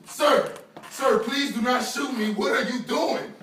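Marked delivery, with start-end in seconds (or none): 0.0-2.3 pleading in fear. Real, not acted. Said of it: "I'm fucking scared right now".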